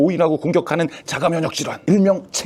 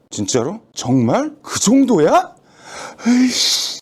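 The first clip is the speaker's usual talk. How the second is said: shocked disbelief; 5 semitones higher, much slower than usual. Acted. Doctor hearing his friend's diagnosis, shocked outburst. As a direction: react as if hit by bad news.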